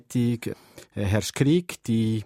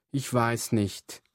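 worried; slower than usual. Acted. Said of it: "meint Selma besorgt".

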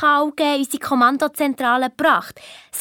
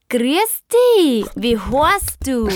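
talking phone; 3 dB louder, much slower than usual. Retold or imitated. The phone greeting the children for the first time, cheerful gadget voice. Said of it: "Und das Handy sagt".

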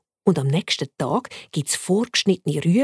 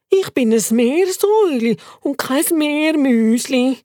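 much higher, slow squeaky critter voice; tiny pet squeaking its complaints; squeaky guinea pig; 8 semitones higher, slower than usual. Acted. Guinea pig to friend, squeaky and fussy.

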